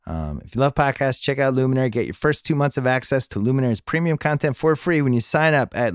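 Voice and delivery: upbeat podcast sponsor read; brisk promo voice. Acted. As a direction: sell it like a host-read ad. Host reads Luminary sponsor ad.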